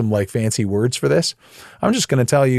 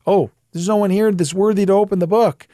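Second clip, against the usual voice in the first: mock weeping; 7 semitones higher than usual. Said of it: "John is weeping".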